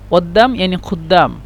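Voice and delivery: قدام first as /wadːam/, glottal, then with a full q; Egyptian pronunciation. Shown as a demonstration. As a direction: contrast the Egyptian and standard قدام. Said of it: "لكن هم ينطقون قدام".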